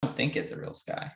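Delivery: quick soft whisper. Real, not acted. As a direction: whisper it aside. Repeats remark under breath.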